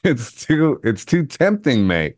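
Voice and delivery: put-on "tempting" and "mate" in a light London accent; playful London accent. Host admitting the London accent is too tempting. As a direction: slip back into the geezer voice. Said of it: "I knew I would fail this test".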